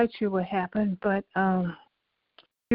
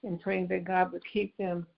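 softer, steady prayer voice; 4 dB quieter than usual. Acted. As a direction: lift them up in prayer, gently. Resumes the prayer call.

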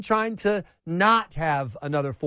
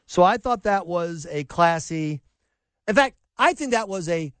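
Trump impression; 3 semitones higher than usual. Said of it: "giving into my inner Donald Trump".

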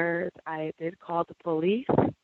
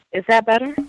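louder, for a caller who can't hear; speaking up; 4 semitones higher, 8 dB louder than usual. Real, not acted. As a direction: raise your voice so they hear. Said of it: "Speak up, speak up".

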